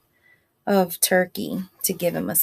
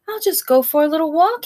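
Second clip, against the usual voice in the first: groundhog voice; 8 semitones higher, 4 dB louder, much faster than usual. A narrator's reading. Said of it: "he said".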